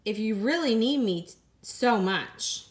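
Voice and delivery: reading a picture book to the class; story narration. A narrator's reading. Teacher reading a picture book to her class, storytime voice. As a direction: storytime read-aloud voice.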